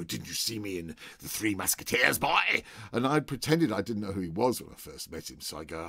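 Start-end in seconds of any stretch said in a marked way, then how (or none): 0.0-2.6 booming theatrical challenge; mock Oliver Reed bluster. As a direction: bellow it like a drunk old film star. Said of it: "he'd go".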